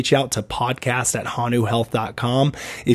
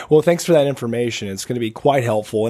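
raspy, hoarse smoker's voice; smoker's rasp. Real, not acted. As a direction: talk through a rough, raspy throat. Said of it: "raspy smoker's voice".

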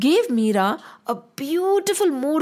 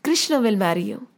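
put-on a mother gently reassuring her little girl; smiling mother; 3 semitones lower than usual. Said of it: "Her mother smiled and said".

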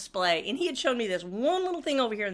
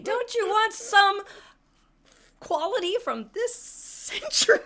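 famous line; 10 semitones higher, slower than usual. Shown as a demonstration. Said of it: "It was my famous line".

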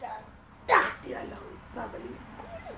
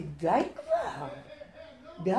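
laughing mock scolding; faster than usual. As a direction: tell yourself off through a laugh. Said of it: "אז אמרתי". (נזיפה צוחקת לעצמה)

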